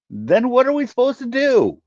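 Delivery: high, loud demanding cry. Acted. Voice at the back demanding answers from the agents.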